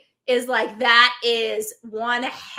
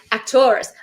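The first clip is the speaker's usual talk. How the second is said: louder repeat; 7 dB louder than usual. Shown as a demonstration.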